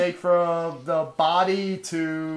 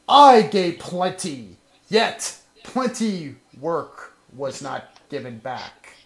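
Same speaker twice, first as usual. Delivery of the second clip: lightly hammed-up dramatic speech. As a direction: deliver it like a wounded leader. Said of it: "Very dramatic, sir".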